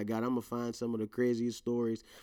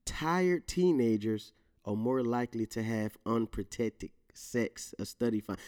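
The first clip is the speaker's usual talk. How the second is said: slow reading; 2 semitones lower than usual. Shown as a demonstration. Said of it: "Let me say that again".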